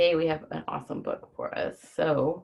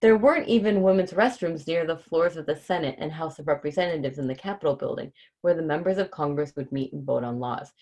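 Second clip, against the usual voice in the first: put-on reading to children; 2 semitones higher, 3 dB louder than usual. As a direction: read it out brightly to the kids. Reads picture book to children.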